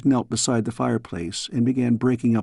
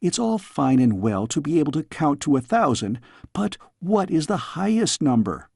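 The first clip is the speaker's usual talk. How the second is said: put-on higher, eager girl pestering; a cheeky young princess; curious young girl; 4 semitones higher than usual. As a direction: badger the old tutor, pitched up. Girl questions her tutor.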